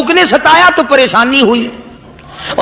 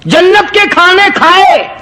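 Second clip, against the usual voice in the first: dog's reproach; 6 semitones higher than usual. A narrator's reading. Dog answers the holy man.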